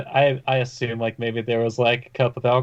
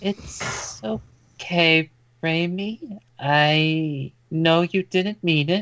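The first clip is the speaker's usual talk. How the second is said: pitched-up woman's voice, drawn-out "I"; 5 semitones higher than usual. Voicing a character who comforts Raimi: woman's voice. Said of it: "in a woman's voice".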